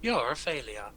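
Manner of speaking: mock GPS losing patience; British sat nav. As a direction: parody a sat nav scolding the driver. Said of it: "how British sat nav sound".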